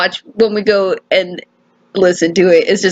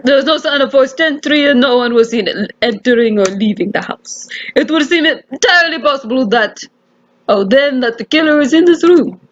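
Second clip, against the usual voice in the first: measured inspector with a put-on Russian accent; formal condolence in attempted Russian accent. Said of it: "attempted Russian accent here".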